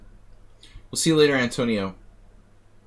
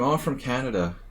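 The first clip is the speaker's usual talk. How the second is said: put-on light Canadian accent on I'm from Canada; Oh, I'm from Canada in a slightly raised Canadian accent; 4 semitones higher than usual. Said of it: "Practicing my Canadian accent".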